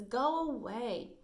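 slow, lightly acted telling-off; Bella. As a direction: draw it out to send the puppy off, mildly. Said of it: "Bella says".

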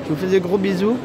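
muffled behind cloth mask; speaking with covered mouth; through a face mask. Real, not acted. Seen 3: White cloth mask covers mouth and nose in every labelled frame.

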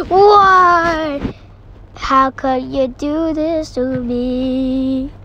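hammed-up crying why; mock wail. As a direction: fake sob of betrayal. Game betrayal, mock wail.

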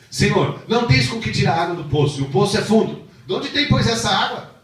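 high, loud, indignant woman; challenging Samaritan woman. Acted. Preacher voicing the Samaritan woman, high and indignant. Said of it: "a mulher se lhe replicou".

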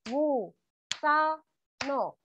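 "Gusano" stretched very slowly, GU-SA-NO; syllables split. Shown as a demonstration. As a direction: drag out "Gusano" beat by beat. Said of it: "la palabra gusano". ("Gusano" muy lento, sílaba por sílaba)

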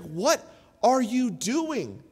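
slow, level, puzzled wife; wife's calm question. Retold or imitated. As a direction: ask it slowly, calmly, to stop him. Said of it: "my wife pulled me aside and she's like".

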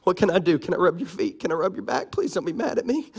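quick, meek begging; softly grovel to an angry wife; pleading husband. Retold or imitated. Husband begging his wife not to be mad, meek pleading. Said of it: "and I'm like".

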